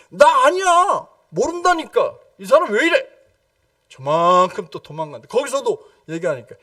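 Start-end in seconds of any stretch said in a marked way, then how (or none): 0.1-3.2 high, frantic denial, pushing them away; panicked denial. Retold or imitated. Peter denying in panic.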